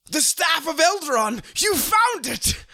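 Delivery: high, loud triumphant cry; excited exclamation. Acted. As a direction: shout it like a found treasure. Joke answer acted out loud.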